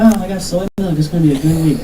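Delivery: mock cheerful. Happy self leaving store.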